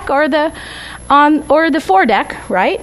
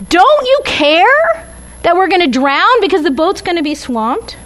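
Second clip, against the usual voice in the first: higher, urgent plea to the sleeping teacher; panicked disciples; 4 semitones higher than usual. Retold or imitated. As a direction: cry out over the storm, half-acted.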